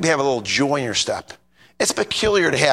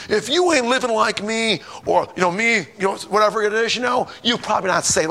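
mock judgmental church voice, pitched up; threatening; 6 semitones higher than usual. Preacher mimicking his pet peeve, threatening. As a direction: imitate a self-righteous scold. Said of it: "and they threaten you".

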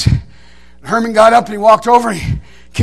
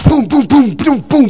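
gunfire imitation; slower than usual. Imitating rapid revolver shots.

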